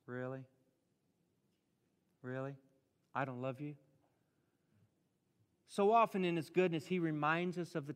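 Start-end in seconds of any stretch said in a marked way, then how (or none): 0.1-3.7 softer, lower, gently questioning; still small voice. Acted. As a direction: ask it quietly, like a gentle nudge. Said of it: "still, small, quiet voice".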